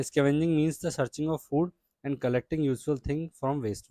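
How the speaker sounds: slow, deliberate textbook reading; teacher reading the English definition slowly; reading textbook aloud. Acted. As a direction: read the definition out slowly for the class.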